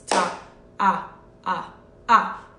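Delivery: "Ta" carried on through "ah, ah, ah"; whole-note counting. Shown as a demonstration. Teacher shows one long sound, whole-note counting. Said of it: "long sound over four beats".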